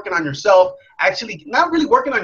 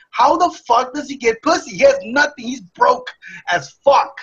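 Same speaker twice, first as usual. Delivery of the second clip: frustrated self-quote; 5 semitones higher than usual. Retold or imitated. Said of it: "And I would get so pissed off".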